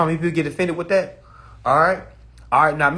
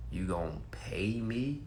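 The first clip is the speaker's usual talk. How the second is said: whisper; 5 semitones lower, 10 dB quieter, slower than usual. Retold or imitated. Suspicious inner thought.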